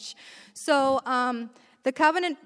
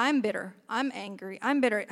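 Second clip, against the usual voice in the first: repetitive complaining; 3 semitones lower, 4 dB quieter, faster than usual. Retold or imitated. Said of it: "she's repeating herself".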